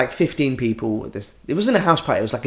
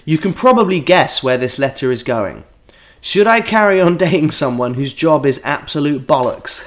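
measured read-aloud of a listener's letter. Acted. Host reads a dating dilemma from a listener, letter-reading voice. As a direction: read it out deliberately, punching key words.

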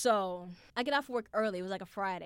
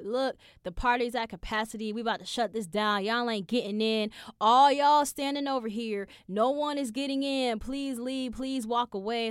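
louder bossy crowd control; guard order; 3 semitones higher, 6 dB louder than usual. Retold or imitated. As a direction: bark at the line to leave.

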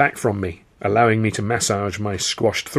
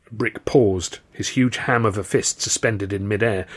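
ordinary delivery, nothing marked

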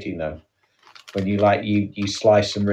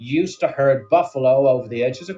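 lightly hammed-up American presenter accent; a mild cheesy American host; 2 semitones higher than usual. Telling Sam fake buffalo facts, light American accent. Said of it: "we're doing accents again".

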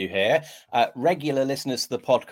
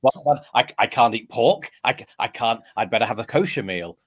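mock Jewish alarm; 4 dB louder than usual. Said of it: "I become the most Jewish person ever".

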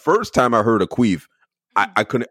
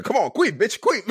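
high laughing mock coax. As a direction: giggle through the words.

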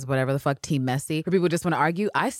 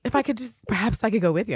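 put-on much higher, small, shy girlish voice; timid Anne Walker; 10 semitones higher than usual. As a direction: play her as timid and hopeful. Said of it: "cute little Anne Walker".

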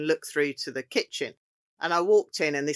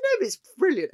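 much higher, louder insisting; excited retort; 4 dB louder, faster than usual. Retold or imitated. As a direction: defend the joke with glee. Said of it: "I said".

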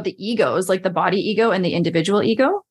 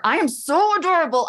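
higher, ironic self-mocking lilt on so adorable; 8 semitones higher than usual. Shown as a demonstration. Joking about a dead car battery, ironic higher lilt. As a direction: say it with a wry, self-teasing tilt. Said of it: "It doesn't hear tone or inflection".

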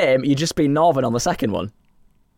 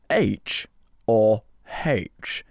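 careful non-northern English accent, slowing down; English without the northern accent; 7 semitones lower, 3 dB quieter, much slower than usual. Shown as a demonstration. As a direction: drop the northern accent, enunciate slowly. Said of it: "let's get rid of the northern accent".

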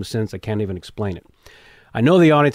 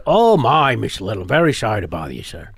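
Columbo impression. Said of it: "dressed up as Columbo".

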